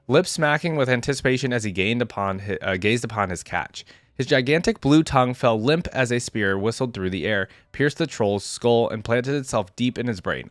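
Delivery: even, measured read-aloud narration; story narration. A narrator's reading. YouTuber reading a champion's biography to viewers, story narration.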